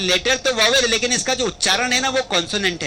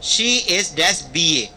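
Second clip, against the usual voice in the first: slow dictation; 3 semitones lower, much slower than usual. Shown as a demonstration. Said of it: "एक question आता है".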